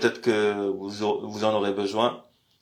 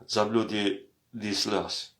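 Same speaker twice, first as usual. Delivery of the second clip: zabludillas slow and a little softer; slow demo; 5 dB quieter, much slower than usual. Shown as a demonstration. Teacher repeating the feminine form slowly. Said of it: "Voilà, vous avez la prononciation".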